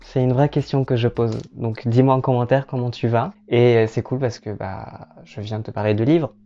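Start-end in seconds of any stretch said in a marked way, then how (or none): none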